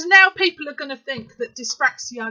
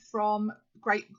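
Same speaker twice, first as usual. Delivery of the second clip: talking without dentures; lisping with no teeth; 4 semitones lower, 6 dB quieter than usual. Real, not acted. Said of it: "sorry, I haven't got my teeth in".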